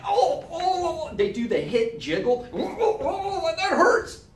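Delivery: high, laughing mock whimper; whiny paintball newbie. Imitating a paintball newbie who got hit, high whimper. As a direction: whine like a first-timer who got hit. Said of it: "and they're like".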